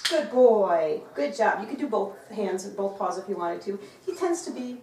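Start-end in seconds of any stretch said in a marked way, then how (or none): 0.1-1.6 loud, drawn-out praise with a fall; hearty praise. Real, not acted. Trainer rewarding her dog for a shake, hearty praise.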